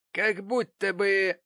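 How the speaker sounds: slow, high, scornful drawl; contemptuous. Acted. Mrs Gamp sizing up her visitor, slow contemptuous reply. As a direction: look her up and down with the words. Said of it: "презрительно обводя её взглядом".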